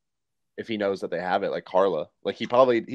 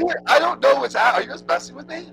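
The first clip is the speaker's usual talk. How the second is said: high, warped alien-sounding voice; glitchy distorted voice; 12 semitones higher than usual. Real, not acted. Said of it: "you sound like an alien".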